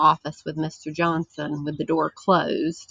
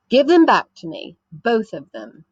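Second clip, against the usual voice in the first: demanding; 3 semitones higher, 4 dB louder than usual. Acted. Boy demands his toys back.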